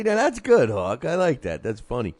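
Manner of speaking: hammed-up glee at the joke; mock delighted praise. Teasing a co-host by gushing that his joke is funny, mock delighted. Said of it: "you say".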